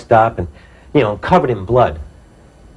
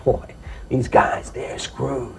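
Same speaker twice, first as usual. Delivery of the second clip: inner thought; 8 dB quieter, much slower than usual. Retold or imitated. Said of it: "I'm thinking".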